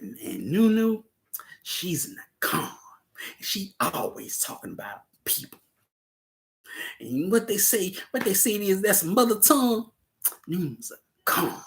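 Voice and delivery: imitated Southern country twang; a light Southern country twang. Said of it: "in her country twang".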